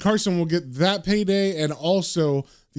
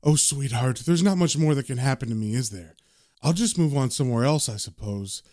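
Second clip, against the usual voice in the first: gentle, lower, mildly tender; loving; 4 semitones lower than usual. Retold or imitated. Ghost husband consoles his wife, gently loving. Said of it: "he looks down lovingly and says".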